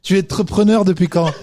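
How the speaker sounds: "entrepreneur" said as 'trepreneur, amused; swallowed syllable. Retold or imitated. Host teasing the guest, clipped "entrepreneur". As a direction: ask it with the "en" of "entrepreneur" missing. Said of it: "on perd pas de temps".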